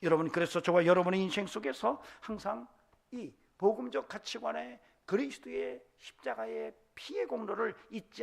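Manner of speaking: loud, high, driving sermon climax; full-force preaching. Real, not acted. Preacher blessing the congregation to overcome the world, full-force preaching. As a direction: proclaim it at full volume to the congregation.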